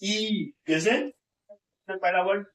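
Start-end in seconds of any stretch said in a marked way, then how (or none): 0.0-0.5 ई drawn out in one sustained sound; long vowel demo. Shown as a demonstration. Teacher contrasting long and short vowels, stretched ई. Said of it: "खींचना नहीं है".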